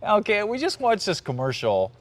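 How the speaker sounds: ordinary talk, nothing marked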